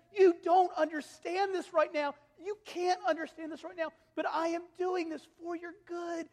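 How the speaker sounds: put-on a loving father explaining to his child; God as father. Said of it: "and he says".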